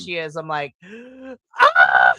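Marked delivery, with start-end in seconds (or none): 0.9-1.5 sharp breathy gasp of shock; surprised gasp. Retold or imitated. Reacting to surprise entrance. 1.6-2.1 loud excited "Ah!" scream. Retold or imitated. Reacting to surprise entrance.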